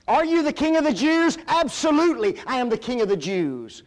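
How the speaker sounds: high, forceful preacher's dramatisation; acted exchange. Preacher dramatising Pilate's question and Jesus' bold answer. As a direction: act out both voices with fervour.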